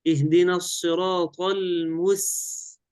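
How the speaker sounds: slow recitation ending on a held hissed س in المس; precise sin. Shown as a demonstration. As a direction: stretch the final 's' of المس cleanly. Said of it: "السين أس". (تلاوة متأنية مع سين صافية في المس)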